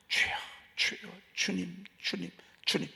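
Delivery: soft whisper, calling to the Lord; whispered prayer. Shown as a demonstration. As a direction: murmur the call gently, under the breath. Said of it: "주여를 자주 속삭이십시오". (주님을 부르는 나지막한 속삭임)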